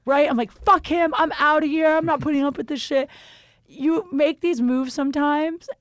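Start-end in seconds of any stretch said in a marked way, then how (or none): 0.5-3.1 high, indignant retold rant; mock huffy outburst, gathering speed; in a huff. Leaving the party after the fight, acting out a huff. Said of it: "I'm all in a huff".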